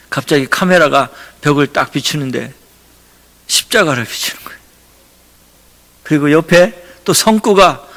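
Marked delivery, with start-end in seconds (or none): 3.5-4.6 whisper. Real, not acted. Awed reveal of the cross.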